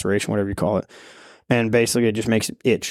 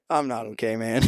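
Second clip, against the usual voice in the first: softer, fading "I'm not okay"; weak admission; 6 dB quieter than usual. Retold or imitated. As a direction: barely get it out, drained. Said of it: "he's, yeah".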